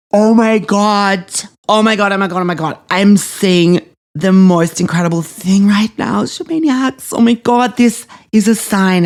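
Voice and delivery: can't believe the sign she sees; excited discovery. Real, not acted.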